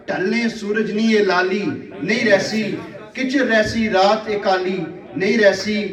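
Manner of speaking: measured mushaira recital, repeating lines for effect; poetry recitation. Acted. Poet reciting verse to a live audience, declaimed. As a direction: declaim verse with drawn-out line endings.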